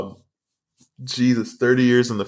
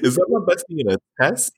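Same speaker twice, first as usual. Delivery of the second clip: mock weepy cry; 8 semitones higher than usual. Mock weepy joke line.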